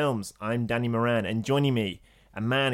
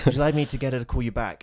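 polite secretary voice; 5 dB louder, faster than usual. Retold or imitated. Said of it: "Was that your Ruby Films voice? Yes".

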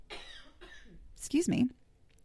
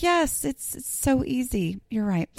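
sarcastic agreement; 5 semitones higher than usual. Retold or imitated. Replying to know-it-all commenters, high and sarcastic. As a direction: agree sweetly without meaning it. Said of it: "And you're like".

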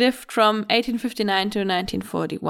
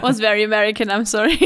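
laughing apology; much faster than usual. Real, not acted. Apologizing amid the hosts' laughter.

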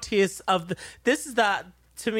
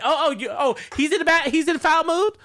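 mock disbelief; 6 semitones higher than usual. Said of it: "Williams was like".

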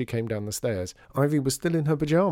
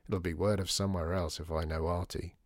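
muttered; 5 semitones lower, 6 dB quieter than usual. Acted. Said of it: "muttered Dor".

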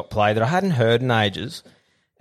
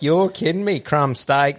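higher, surprised "you're kidding me"; mock disbelief; 4 semitones higher, slower than usual. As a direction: act amazed the steak turned up. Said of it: "we're like".

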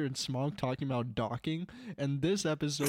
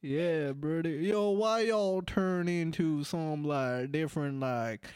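put-on Southern accent. Asking the co-hosts about their changing accents, mock Southern accent. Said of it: "the stupid Southern bullshit".

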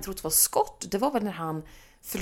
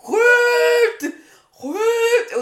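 much higher, loud yelled Skjut; shouted command; 14 semitones higher, 9 dB louder than usual. Retold or imitated. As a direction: yell it like a hunter in the woods. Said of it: "Bara, bara". (imiterat jägarskrik)

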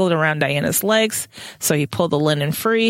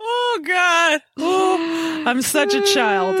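laughing; 11 semitones higher, much slower than usual. Real, not acted. Laughing fit after joke.

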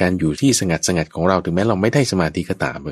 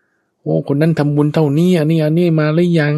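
high, drawn-out holler, acted; mock announcing call; 9 semitones higher, 4 dB louder than usual. Monk imitating someone announcing merit donations, drawn-out high call. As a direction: call it out slowly like a temple crier, pitched up. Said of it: "ตีเป่าประกาศร้อง".

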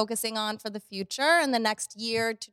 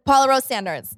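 laughing through tears; 4 semitones higher, 7 dB louder than usual. Real, not acted. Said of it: "I'm gonna start over".

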